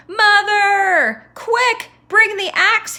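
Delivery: high, loud urgent yell; urgent shout. Acted. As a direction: yell for help from afar. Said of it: "he shouted".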